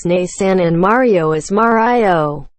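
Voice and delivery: MARIO said two ways, second as "Ma-rye-o"; contrasted pronunciations. Shown as a demonstration. Telling of wife's pet hate, contrasted pronunciations. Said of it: "My wife hates when I don't pronounce".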